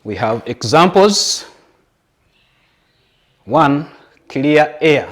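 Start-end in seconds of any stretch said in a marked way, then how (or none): 4.3-5.1 "clear" set apart and said slowly, with emphasis; stress on clear. Real, not acted. Teacher listing an example for candidates, stressing "clear". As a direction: lean deliberately on the word "clear". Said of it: "I'm emphasizing the word clear".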